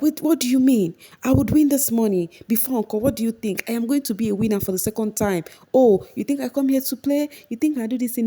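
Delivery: mock outrage at the question; imitating a defiant housemate; indignant Mercy. Mercy retold defending herself.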